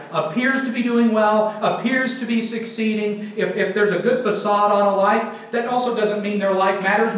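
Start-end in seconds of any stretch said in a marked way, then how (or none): 0.1-1.6 "appears" said with deliberate emphasis; stress on appears. Real, not acted. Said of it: "I emphasize the word appears". 1.6-3.3 "appears" picked out with emphasis; stress on appears. Real, not acted. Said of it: "I emphasize the word appears".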